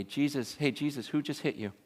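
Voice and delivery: lightly acted jeer at a victim; mocking taunt. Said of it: "and mock him and go".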